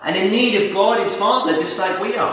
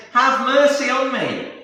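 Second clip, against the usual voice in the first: higher-pitched narrated plea; begging; 7 semitones higher than usual. A narrator's reading. Woman begs Jesus for mercy, pleading. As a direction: beg for mercy, mildly acted. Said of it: "comes and begs Jesus".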